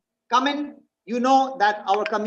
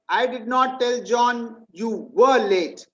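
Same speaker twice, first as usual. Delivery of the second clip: "were" leaned on, slow delivery; stress on WERE; slower than usual. Shown as a demonstration. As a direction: stress "were" to show the lateness is still going on. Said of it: "I told him you still are late".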